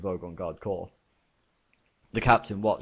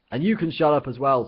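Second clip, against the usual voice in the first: louder, higher irritated snap; 7 semitones higher, 7 dB louder than usual. Acted. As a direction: swat the guard's line away. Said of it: "snapped Ford".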